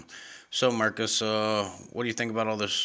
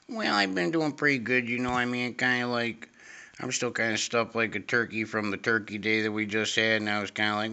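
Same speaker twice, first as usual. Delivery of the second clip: higher put-on teen guest voice, rambling; lightly raised talk-show guest voice; Jimmy character voice; 4 semitones higher than usual. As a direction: play Jimmy a bit higher than yourself. Host's friend Jimmy voiced higher.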